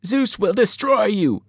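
slow, high, threatening cry; menacing Fury. A narrator's reading. Mrs Dodds cursing Percy from the floor, slow shrieking threat. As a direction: promise doom like a monster. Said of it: "she promised".

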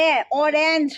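অরেঞ্জ with an open "ae" sound after the R; short vowel shown. Shown as a demonstration. Teacher shows students the vowel, open "ae" in অরেঞ্জ. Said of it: "এ উচ্চারণ হচ্ছে".

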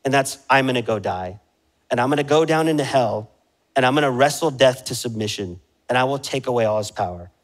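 steel yourself to go die for them; a hint of Jesus resolving to defeat death; resolute Jesus. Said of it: "And he's thinking".

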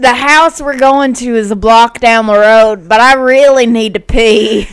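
mock whining. Acts whiny tired commanders.

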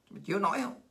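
low, quiet sneering question; soft mocking taunt. Real, not acted. Quietly goading China over the tariffs, mocking. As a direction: hush it and needle him.

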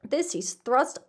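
expressive audiobook reading; story narration. A narrator's reading. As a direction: read it out as a lively tale. Reads the story aloud.

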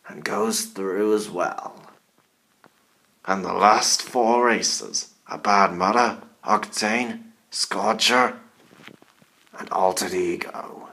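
spooky put-on announcer voice; scary Halloween voice. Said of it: "I'm using my scary Halloween voice".

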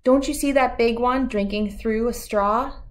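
teasing grandma pointing at a tree; a touch of a grandma character. Acted. Nana voiced in story.

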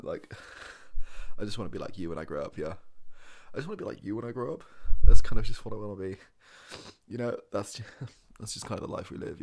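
loud, fast, breathless gushing fan; starstruck fan. Acted. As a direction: gush at your hero. Starstruck fan meets bowler.

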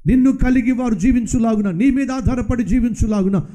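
preacher praying to the loving Father; leading prayer. Acted. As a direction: pray aloud for the congregation. Leads a closing prayer.

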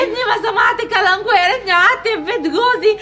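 loud sobbing lament; crying wail. Acted. Wife wailing to family that they ruined her marriage. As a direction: wail the regrets through tears. Wife wails over lost home.

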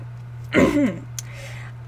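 soft clearing of the throat. Acted. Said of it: "Mercy cleared her throat".

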